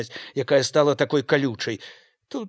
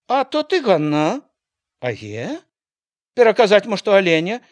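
calling back; 6 semitones higher, 7 dB louder than usual. Acted. Widow calls back from afar.

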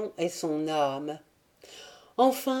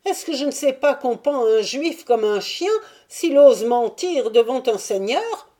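higher, anxious voice of a frightened Jewish merchant; pleading Jew; 6 semitones higher, 6 dB louder than usual. Acted. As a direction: plead fast and high, protesting innocence. Jew pleading his case. (voix de marchand juif apeuré, plus aiguë)

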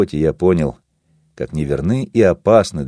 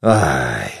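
tired, appeased; 6 semitones lower, slower than usual. Acted. Vaso, calmed, gently chides the narrator. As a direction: sigh it out, all anger spent. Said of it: "сказал Васо усталым и умиротворённым голосом".

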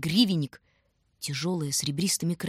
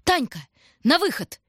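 very high, loud yell; 9 semitones higher, 5 dB louder than usual. A narrator's reading. Shurka yelling to his sister to jump out. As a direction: bellow it out. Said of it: "и заорал".

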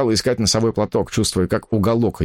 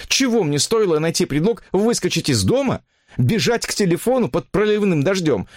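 much higher, reproachful woman's voice; hurt woman; 9 semitones higher than usual. Acted. Mistress reproaching her lover on the phone, high and hurt. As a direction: pour out the grievance, pitched high.

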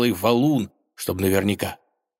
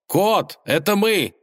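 high, loud call to the cat; 12 semitones higher, 3 dB louder, slower than usual. Acted. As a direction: wave him down with your voice. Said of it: "замахал рукой Иван".

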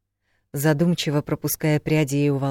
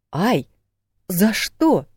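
high yelp of complaint; yelp, then protest loudly; pained protest; 6 semitones higher, 4 dB louder, much slower than usual. A narrator's reading. Man just bitten by her, yelping in protest. He yelps after being bitten.

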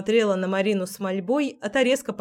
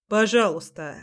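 gruff mock-gallant. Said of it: "рявкнул Дима деланно галантно".

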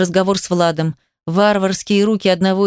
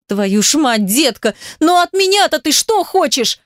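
exasperated doctor bursts out, higher and harder; sudden shout; 6 semitones higher than usual. A narrator's reading. Doctor yelling at the begging patient, exasperated outburst. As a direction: snap it out at the pleading girl, fed up. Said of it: "внезапно закричала врач".

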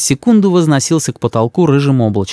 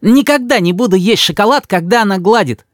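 eager; 7 semitones higher than usual. A narrator's reading. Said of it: "с готовностью сказал Рис".

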